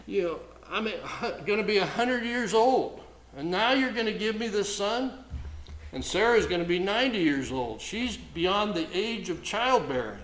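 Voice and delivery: a lightly voiced old Abraham, scoffing in disbelief; mocking Abraham. Pastor voicing Abraham scoffing at a son at a hundred, mild mock disbelief. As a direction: play Abraham half-laughing at God's promise. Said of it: "that's in essence what Abraham was doing here".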